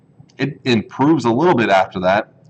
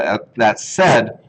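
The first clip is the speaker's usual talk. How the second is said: words stretched by a yawn; much slower than usual. Real, not acted. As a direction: talk through a real yawn. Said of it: "Sorry about the yawn here".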